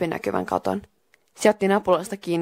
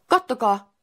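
mild calling out; 5 semitones higher, slower than usual. Acted. Narrator calls friends to look, a mild shout. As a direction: call your friends to look, restrained. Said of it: "huusin kavereilleni".

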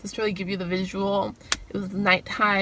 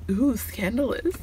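scandalous tone; 2 semitones higher, slower than usual. Shown as a demonstration. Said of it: "I don't know why I say it in that tone".

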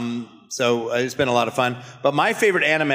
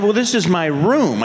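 put-on teen son voice; 6 semitones higher, 3 dB louder than usual. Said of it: "He said".

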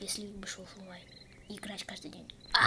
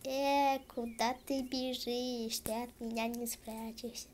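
russian street thug; 5 dB louder than usual. Pretend. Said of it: "я как гопник".

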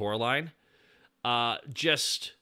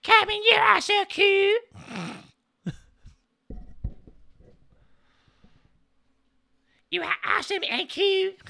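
much higher, gushing fangirl squeal; an over-the-top squeal at how cute Cartman is; Polly Princey Pants impression; 4 dB louder than usual. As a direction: squeal it like a starstruck fan. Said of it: "mostly Polly Princey Pants".

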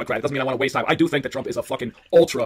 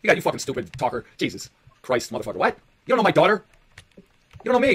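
higher-pitched, offended challenge; heated, incredulous questioning; real indignation; 4 semitones higher than usual. Real, not acted. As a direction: throw it back at them, affronted. Indignant at remark about own daughter.

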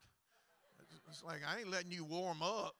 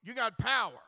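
said with power; 6 semitones higher, 13 dB louder than usual. Shown as a demonstration. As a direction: punch "power" like a revival preacher. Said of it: "Y'all was gonna say it like".

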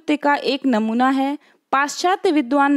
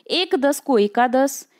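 slow, deliberate repeat; slower than usual. Shown as a demonstration. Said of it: "फिर से मैं इसको underline करती हूँ".

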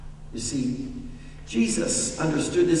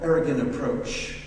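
mock aggressive; 6 semitones higher, 9 dB louder than usual. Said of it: "very aggressive and say".

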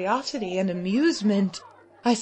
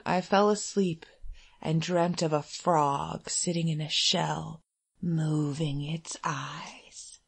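fading whisper; 6 semitones lower, 8 dB quieter than usual. A narrator's reading. Drifting into sleep and dreams.

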